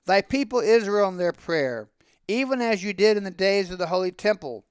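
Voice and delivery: understated chanting storyteller; prayer. A narrator's reading. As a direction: recite it as a continuing prayer. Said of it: "he continues the prayer".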